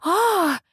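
a sudden high shriek of fright; wail. A narrator's reading. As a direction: let out a piercing wail. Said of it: "Вопль Веры взметнулся к потолку".

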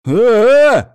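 loud, high startled yell; alarmed shouts. A narrator's reading. Prisoners in the pit yelling as petrol pours on them. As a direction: cry out as the fuel hits you. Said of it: "доносятся возгласы из подземелья".

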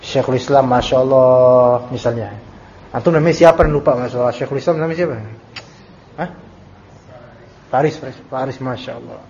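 loud, mocking praise of a lazy student; sarcastic scolding teacher. Teacher mockingly scolds a late student, loud sarcasm. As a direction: scold with exaggerated sarcastic Masya Allah. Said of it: "kayak marahnya seorang guru yang sayang pada muridnya".

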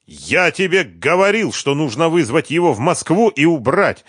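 high, loud, furious outburst; angry shout. A narrator's reading. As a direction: yell it at her in rage. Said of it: "зло выкрикнул он". (злой выкрик Харькова на Машу)

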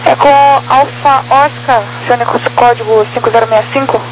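over a crackly radio; radio transmission. Real, not acted. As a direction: talk like on an aircraft radio. Controller radio instruction.

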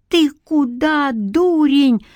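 high, slow scolding yell; granny shouting. A narrator's reading. Granny to the boy, a high scolding shout. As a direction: scold him off the danger. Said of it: "закричала на него бабка Стеша".

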